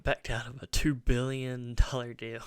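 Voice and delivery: loud, then breaking into a laugh; excited read-out. Real, not acted. Reading the headline out, amused.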